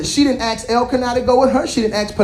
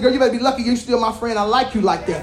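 laughing retort; 2 semitones lower, 3 dB quieter, faster than usual. Retold or imitated. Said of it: "I said".

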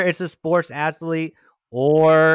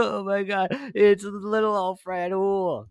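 fond surprise; 6 semitones higher, slower than usual. Retold or imitated. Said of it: "maybe I'd be like".

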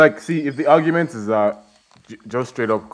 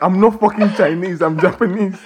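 retold angry server; 9 semitones higher, 4 dB louder than usual. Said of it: "she had a regular accent".

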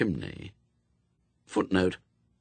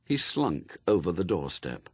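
ordinary delivery, nothing marked

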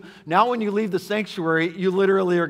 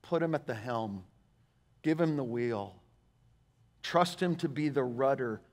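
measured, pastoral encouragement with long pauses; earnest exhortation; 3 semitones lower, 5 dB quieter, slower than usual. Real, not acted. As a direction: urge them gently, phrase by phrase. Earnest slow exhortation to congregation.

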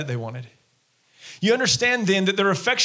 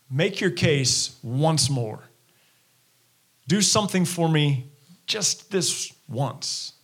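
mock demanding crowd; 3 semitones lower, slower than usual. Crowd voiced demanding more signs.

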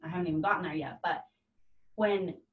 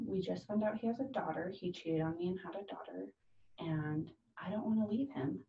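hushed confession; 7 dB quieter than usual. Retold or imitated. Client confessing a painful secret.

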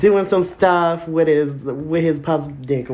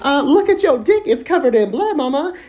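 alarmed outburst; 9 semitones higher, 4 dB louder than usual. Retold or imitated.

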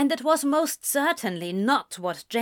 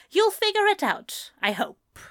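high, sugary reply; sweetly; 10 semitones higher than usual. A narrator's reading. Sister answering the brother she smacked, sweetly. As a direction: answer with mock sweetness, starting high and dropping. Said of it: "she said sweetly".

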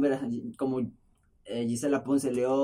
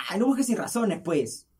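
retold yell; 6 semitones higher than usual. Retold quarrel with neighbor.

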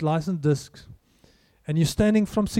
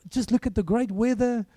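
mock chirpy optimism; 3 semitones higher than usual. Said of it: "Is it, it's".

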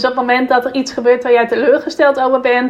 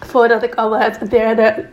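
just after a sip of water; while sipping a drink; 2 semitones lower than usual. Real, not acted. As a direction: talk between sips of water. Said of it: "Ik pak even een slokje water".

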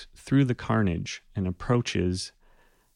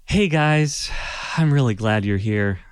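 louder cheerful greeting; friendly greeting; 3 dB louder than usual. Acted. Luggy greets the party, lightly voiced cheerful. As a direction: welcome the friends warmly. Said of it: "he says".

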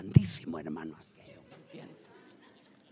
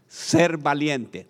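slow, weighty statement of point two; slow key phrase; much slower than usual. Shown as a demonstration. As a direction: spell out the point slowly for them to repeat. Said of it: "Diga conmigo".

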